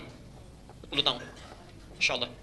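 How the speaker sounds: hushed, breathless whisper. Real, not acted. Preacher whispers the forty years in awe. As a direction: let it fall away to a whisper. Awed aside after the prayer.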